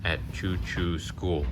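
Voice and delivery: sing-song picture book reading; reading to children. Acted. Parent reading a train picture book to a child, sing-song. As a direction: read the rhyme gently to a little one.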